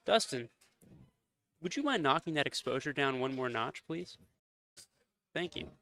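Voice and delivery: soft, courteous request; polite commentator voice. Real, not acted. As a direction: ask politely and quietly over the mic. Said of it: "I'm asking politely".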